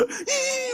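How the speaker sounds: high sobbing 예; a wailing, teary 예, pitched high; mock crying yes. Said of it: "울면서 갔다가". (울먹이며 높게 외치는 예)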